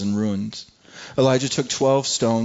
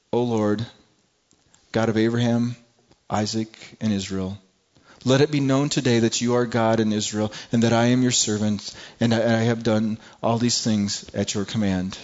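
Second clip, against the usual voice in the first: lightly reverent prayer voice. Acted. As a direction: pray to the Lord humbly. Elijah's prayer read.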